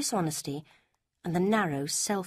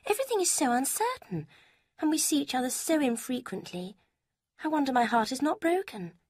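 a higher, lighter voice for Lucy; Lucy, higher voiced; 9 semitones higher than usual. A narrator's reading. Lucy quizzing Eleanor about Mrs Ferrars, higher voice. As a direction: lift the pitch for the young woman Lucy.

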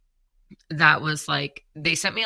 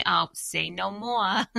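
slow, higher-pitched New York Jewish accent; 5 semitones higher, slower than usual. Shown as a demonstration. Host showing off accents to co-host, in a New York Jewish accent. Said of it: "If you want that New York Jew".

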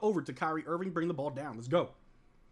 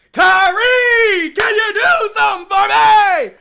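much higher, much louder, slow drawn-out yell; shouted plea; 13 semitones higher, 16 dB louder, slower than usual. Real, not acted. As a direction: scream the plea at the screen. Yelled plea during play.

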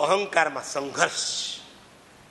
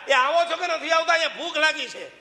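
impatient call; 8 semitones higher than usual. Retold or imitated. Dasharath calls the sons.

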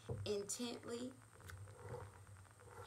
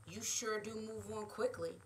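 salty. Acted. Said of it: "I say saltily".

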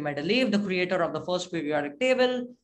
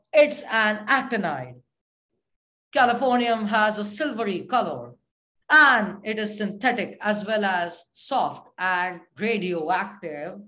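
game show host. Pretend. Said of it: "I'm talking like a game show host now".

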